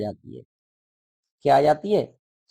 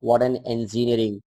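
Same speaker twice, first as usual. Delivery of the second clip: slow wonder; 5 semitones lower, much slower than usual. Acted. Reading the exclamation again.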